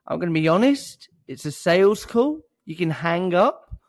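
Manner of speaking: loud rising question tune on "honest", "call" and "up"; Australian syndrome upspeak. Retold or imitated. Cold caller opening a sales call, every phrase rising high like a question. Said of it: "Australian syndrome".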